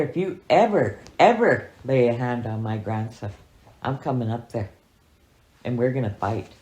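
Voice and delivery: half-acted furious grandpa warning; angry threat. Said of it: "he told her".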